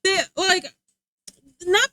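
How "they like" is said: laughing. Real, not acted. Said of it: "It was kinda funny".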